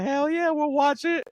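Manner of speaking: high, slow mock cheer; mock coworkers cheering. Coworkers agreeing to watch the film, high slow mock cheer. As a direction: pitch way up and stretch it like excited coworkers. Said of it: "They're like".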